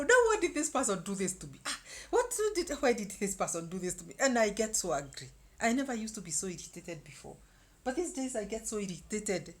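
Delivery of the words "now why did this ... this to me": louder, higher indignant rant; mock quarrel. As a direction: complain loudly about the person. Acting out her quarrelling.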